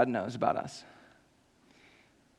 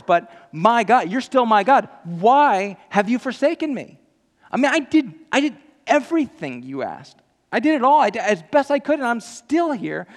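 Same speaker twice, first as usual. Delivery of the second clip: high, loud, pleading build; fervent preacher voicing the forsaken believer; impassioned preaching; 6 semitones higher, 5 dB louder than usual. Real, not acted. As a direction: preach it at full force, pleading.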